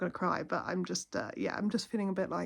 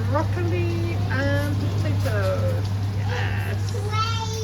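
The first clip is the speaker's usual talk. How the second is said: much higher and louder, stretched out slowly; excited; 8 semitones higher, 11 dB louder, much slower than usual. Real, not acted. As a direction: gush over supper for the little one. Excited talk to toddler.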